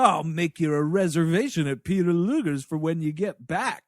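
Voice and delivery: lightly sassy radio banter; a touch of sass, as mission control; mock a sassy NASA controller; sassy control dude. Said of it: "this sassy, like, nasa control dude".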